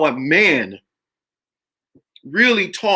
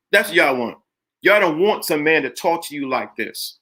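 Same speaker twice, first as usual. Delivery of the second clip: normal talking voice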